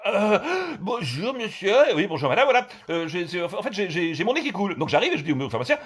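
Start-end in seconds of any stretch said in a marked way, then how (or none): 0.1-1.8 pharmacist's wife. Acted.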